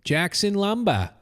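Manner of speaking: put-on Maine accent. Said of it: "in a Maine accent".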